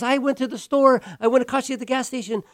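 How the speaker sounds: high, pleading, near tears of frustration; exasperated plea. Retold or imitated. Stranded woman asks if anyone will help, high exasperated plea. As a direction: cry out that nobody will help. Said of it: "And then she goes".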